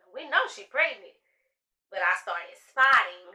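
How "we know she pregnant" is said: higher, louder, sarcastic; mom's knowing retort. Retold or imitated. Mom answering the nurse, louder and sarcastic. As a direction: toss it back with a sarcastic edge. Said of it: "And my mama said".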